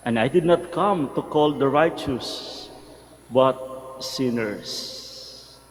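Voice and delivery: measured, solemn proclamation; gospel reading. Acted. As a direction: read scripture aloud to the congregation.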